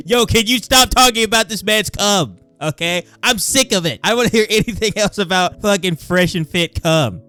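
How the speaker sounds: high-pitched, loud mock exasperation; exasperated outburst. Begging them to stop talking about it, exasperated.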